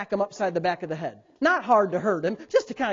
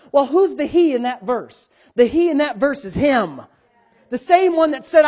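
raised, higher preacher's voice with punched words; forceful preaching; 5 semitones higher, 6 dB louder than usual. Real, not acted. Pastor driving a verse home to the congregation, forceful preaching. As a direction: preach it out loud and emphatic.

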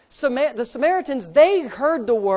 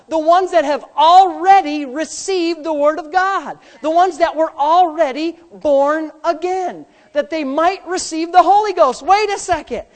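loud, raised sermon delivery; forceful preaching; 5 semitones higher, 7 dB louder, slower than usual. Real, not acted. Preacher explaining who received the Holy Ghost, forceful preaching. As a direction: drive each phrase home to the congregation, loud.

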